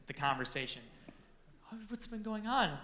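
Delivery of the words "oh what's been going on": a lighter Kim voice. Retold or imitated. Back to the story, Kim asking gently, lightly voiced. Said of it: "Anyway, back to the conversation".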